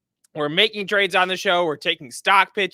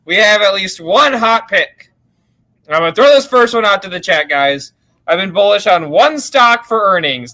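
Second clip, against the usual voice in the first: thin sound from a laptop microphone; talking into a laptop mic; 8 dB louder than usual. Real, not acted. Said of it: "Sounds like your laptop mic to me".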